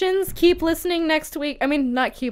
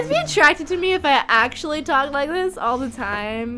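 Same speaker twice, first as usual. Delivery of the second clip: put-on Valley Girl. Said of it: "I really enjoy doing that Valley Girl voice".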